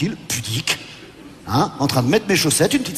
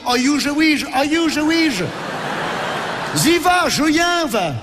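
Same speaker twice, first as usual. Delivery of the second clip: woman in ecstasy; 9 semitones higher, slower than usual. Retold or imitated. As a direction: ham up a woman's cries of pleasure. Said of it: "On n'a jamais entendu une femme, pendant l'amour, dire".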